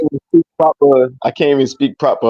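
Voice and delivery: lightly put-on Ghanaian accent, a bit quick. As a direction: joke in a West African lilt. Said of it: "you're speaking Shinaga language".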